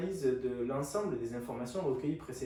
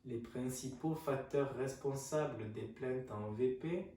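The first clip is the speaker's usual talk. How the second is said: dictating; 3 dB quieter, slower than usual. Shown as a demonstration. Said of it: "je vous laisse noter".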